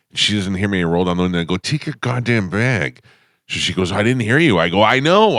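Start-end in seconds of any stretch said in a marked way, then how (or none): 1.6-3.0 higher, slow, drawn-out exasperated command; retold fed-up dad order, stretched out. Retelling yelled order to daughter. 3.9-4.6 put-on higher, louder defensive teen reply; retold protest. Retells daughter's protest to dad. 4.8-5.4 high, louder retold snap; exasperated retort. Retells exasperated reply to daughter.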